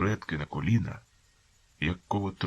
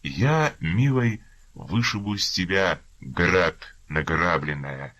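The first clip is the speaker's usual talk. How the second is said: mock gentle voice; 3 semitones higher, slower than usual. Captain threatening the prisoner with false tenderness, lightly voiced. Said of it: "тихим ласкавим голосом".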